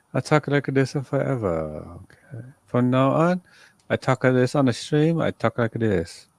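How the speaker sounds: keeps the sleazy phone voice going; a hint of the sultry phone voice kept up; held put-on voice. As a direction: hold the silly put-on voice. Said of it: "I can't keep that up for that long".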